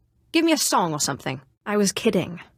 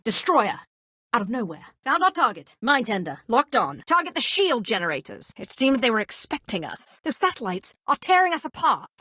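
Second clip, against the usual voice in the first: tense battle calls, raised pitch; starship pilot in combat; 3 semitones higher than usual. Acted. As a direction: bark orders mid-dogfight. Space battle combat barks.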